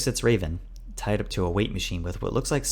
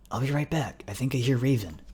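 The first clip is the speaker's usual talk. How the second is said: higher-pitched, voiced repeat; raised pitch, explaining himself; insistent repeat; 6 semitones higher than usual. A narrator's reading. Repeats himself after startled question.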